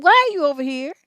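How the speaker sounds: retold irritated why are you here; sharp annoyed question. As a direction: snap the question at a stranger. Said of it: "I said".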